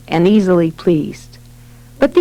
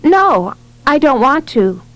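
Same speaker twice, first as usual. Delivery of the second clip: lightly voiced girl, higher and composed; calm child refusal; 5 semitones higher than usual. A narrator's reading. Ashley answers her father's order, calm higher-pitched refusal. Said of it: "In a quiet and calm voice".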